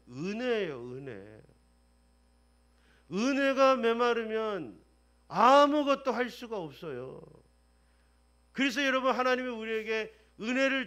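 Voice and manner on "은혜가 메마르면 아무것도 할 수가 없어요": forceful preaching. Real, not acted.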